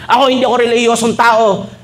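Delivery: mocking Facebook poster. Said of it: "nagpo-post pa sa Facebook".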